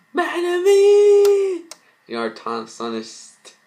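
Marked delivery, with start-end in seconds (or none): 0.1-1.7 one long scream of the name, far higher and louder; anguished scream. Acted. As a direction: wail her name as she dies. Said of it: "Lady tears in her eyes".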